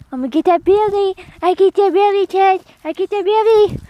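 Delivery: high, loud, fast playful teasing; giggly tickle attack. Real, not acted. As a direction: rev up the belly tickle. Tickling cat belly.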